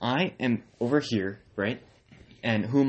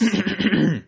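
mock throat clear; 10 semitones higher, 6 dB louder than usual. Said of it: "Do you want me to do a voice?".

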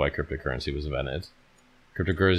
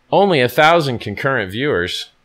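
much higher and louder, a boastful yell; mock brag shout; 11 semitones higher, 11 dB louder than usual. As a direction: crow it out like a show-off. Bragging outburst on stream.

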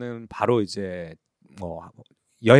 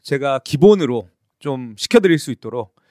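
home shopping pitch; 3 semitones higher, 6 dB louder than usual. Pretend. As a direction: sell it like a home shopping host. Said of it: "이게 홈쇼핑 모드처럼".

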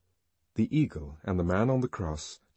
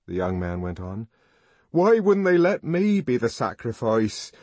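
louder, higher, impassioned outburst; passionate young man; 7 semitones higher, 7 dB louder than usual. A narrator's reading. Young man longing to be the sacrifice, loud impassioned outburst. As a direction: rage that they refused you.

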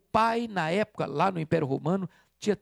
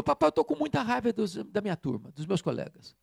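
put-on angry boy; 2 semitones higher than usual. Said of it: "ele chegou muito irritado".

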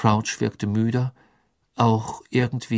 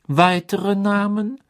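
stern official; 10 semitones higher, 5 dB louder, slower than usual. A narrator's reading. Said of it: "sagte Crouch".

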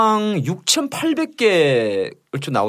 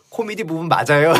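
laughing quote; 9 semitones higher, 8 dB louder than usual. Retold or imitated. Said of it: "페이스북에다가".

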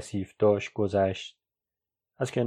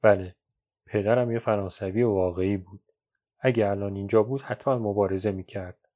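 mildly choked up, holding back sadness; subdued, slightly thick voice. Acted. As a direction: master your grief as you answer.

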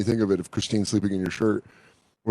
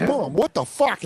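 mock outraged call; 10 semitones higher, slower than usual. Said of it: "I was like".

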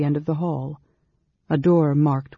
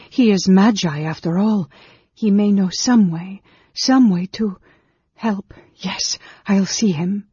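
higher, hopeful self-persuasion; sudden resolve; 6 semitones higher, 5 dB louder than usual. A narrator's reading. Woman tells herself the mage may help, suddenly resolved. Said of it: "she said to herself suddenly".

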